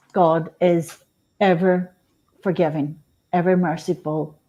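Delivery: centering affirmation. Shown as a demonstration. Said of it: "lower my voice like this".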